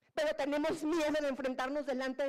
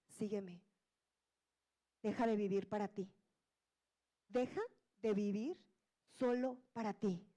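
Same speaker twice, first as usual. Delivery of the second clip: a hushed Jesus inviting the listener to follow; Jesus calling gently; 3 semitones lower than usual. Acted. Voices Jesus's call softly.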